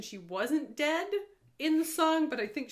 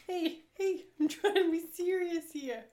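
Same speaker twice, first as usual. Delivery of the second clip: put-on Boston accent; 6 semitones higher than usual. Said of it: "Why are you from Boston?".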